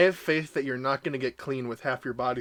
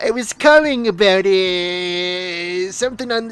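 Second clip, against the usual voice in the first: put-on a light, halting Canadian accent, louder midway; Canadian accent impression; 3 semitones higher, 6 dB louder, much slower than usual. Impersonating old Stu Hart calling about the television, Canadian accent. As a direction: play an old Canadian man fumbling on the phone in a Canadian accent. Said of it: "he had a Canadian accent".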